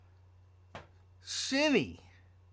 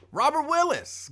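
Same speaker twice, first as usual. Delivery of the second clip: much higher and louder hype call of the name; excited name call; 12 semitones higher, 6 dB louder than usual. Real, not acted. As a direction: belt the name out like a radio shout-out. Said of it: "my voice is a little raised and I'm excited".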